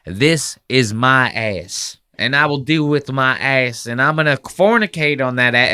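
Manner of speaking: lightly voiced solemn old man reading; old white guy reading. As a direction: read it out with mock gravity. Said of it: "he's this old white guy, and he goes".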